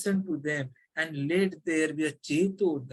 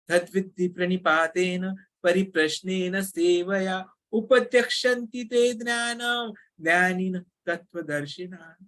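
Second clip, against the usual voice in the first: shloka recitation. Acted. Recites Bhagavad Gita shloka.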